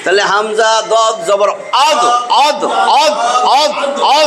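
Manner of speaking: হামজা দদ জবর spelled slowly, then আদ repeated; spelling then drill. Shown as a demonstration. Teacher spelling and drilling আদ for students. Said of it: "দাল, জিহ্বার সামনে টানা রে।".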